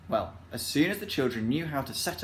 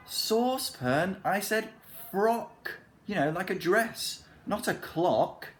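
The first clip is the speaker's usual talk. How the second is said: holding back laughter; 8 semitones higher, slower than usual. A narrator's reading. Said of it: "trying not to laugh".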